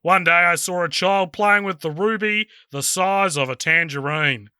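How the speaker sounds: put-on Southern Kiwi accent, lightly done; Alfred's monologue in an Invercargill accent; New Zealand accent. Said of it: "in a New Zealand accent".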